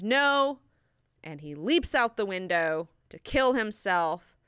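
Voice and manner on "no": loud, high cry of refusal; raised-voice imitation of a scream; retold scream. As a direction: mock-scream the word in defiance. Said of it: "He screams".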